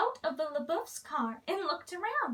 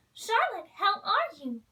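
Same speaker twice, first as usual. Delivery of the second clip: bright happy greeting, a bit higher; exclaiming; 3 semitones higher, 4 dB louder than usual. Acted. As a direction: call out her friend's name gladly. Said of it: "Princess Tiana exclaimed".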